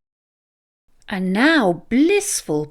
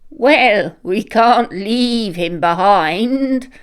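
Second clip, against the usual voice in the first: a touch of bleat, slow and louder; lightly bleated; 4 dB louder, slower than usual. Acted. Ram telling the others to take Badger along, mild bleat. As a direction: insist gently like a sheep. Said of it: "bleated Ram".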